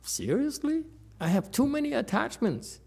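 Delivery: high, disbelieving "seriously?"; high-pitched retold disbelief; incredulous retort. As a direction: push back in mock disbelief at the teacher. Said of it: "I said".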